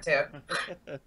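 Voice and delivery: choppy robotic call audio; glitchy robot voice on a bad line. Real, not acted. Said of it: "robot voice?".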